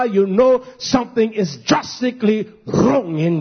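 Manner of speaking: measured, insistent sermon cadence; earnest preacher expounding scripture; emphatic preaching. Real, not acted. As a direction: drive each phrase home from the pulpit.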